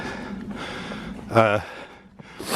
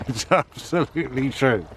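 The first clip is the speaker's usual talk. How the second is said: laughing; 2 semitones higher, 3 dB quieter than usual. Real, not acted. Joke about father, laughing.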